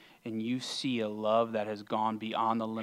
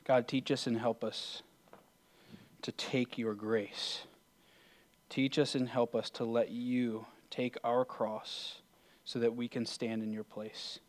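prayer. Real, not acted. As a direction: pray earnestly, leaving long pauses between phrases. Leads a closing prayer.

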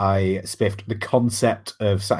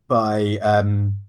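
hiccups. Real, not acted. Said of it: "sorry, I've got hiccups from all the wine".

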